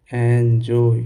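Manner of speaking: एंजॉय in two separate beats, "en - joy"; demonstrated pronunciation. Shown as a demonstration. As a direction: sound out एंजॉय slowly for learners, syllable by syllable. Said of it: "इसका उच्चारण हम करेंगे".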